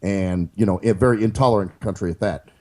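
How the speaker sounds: lightly voiced mock president on a call; calm, halting politician's phone manner, barely shifted; Obama prank call. Pretend Obama calling a terrorist on the phone, lightly voiced. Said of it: "it's Barack Obama from America".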